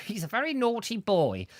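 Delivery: quoted film line. Retold or imitated. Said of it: "It's that sort of thing".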